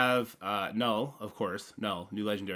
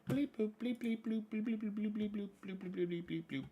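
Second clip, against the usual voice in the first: high, soft robot bleeping; playful mock computer noises; computer bleeps; 12 semitones higher, 7 dB quieter than usual. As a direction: beep like a little computer booting up. Logging in, imitating computer.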